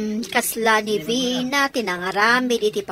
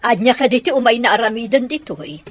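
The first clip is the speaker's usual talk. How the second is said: laughing; 4 dB louder, faster than usual. Acted. Teasing the daughter's father.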